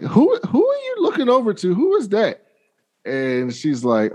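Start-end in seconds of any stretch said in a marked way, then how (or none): 0.0-2.4 much higher, curious mom voice; nosy mom. Retold or imitated. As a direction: play the prying mother peeking at the screen.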